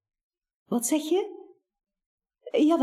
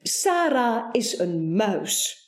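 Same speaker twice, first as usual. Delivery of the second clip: determined. Acted. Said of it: "Baas vastberaden antwoordt".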